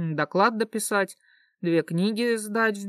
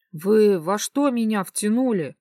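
horrified; 3 semitones higher, 4 dB louder than usual. Acted. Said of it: "с ужасом".

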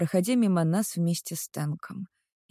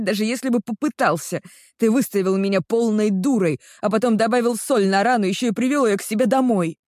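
higher, louder hurt accusation; jealous accusation; 4 semitones higher, 4 dB louder than usual. Acted. Jealous girl accusing the boyfriend, higher heated reproach. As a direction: throw every grievance in his face.

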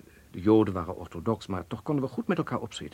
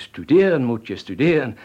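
nadrukkelijk aandringen; 10 dB louder than usual. Acted. Ergert zich aan haar onwetendheid.

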